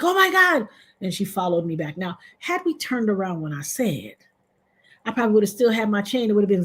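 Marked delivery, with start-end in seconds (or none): 0.0-0.7 much higher gasp of oh my God; shocked friend. Retold or imitated. Friend seeing the robbery, a much higher shocked cry. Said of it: "she was like".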